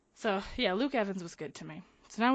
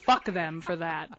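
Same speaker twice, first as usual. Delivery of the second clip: real, emphatic indignation; pissed off. Real, not acted. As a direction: vent it forcefully, punching the curses. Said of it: "that pisses me off".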